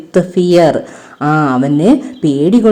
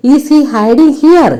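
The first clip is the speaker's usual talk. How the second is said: suspicious fox; 7 semitones higher, much slower than usual. Acted. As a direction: sniff him out like a cunning fox. Fox suspects the rabbit. (സംശയത്തോടെ കുറുക്കൻ ചോദിക്കുന്നു)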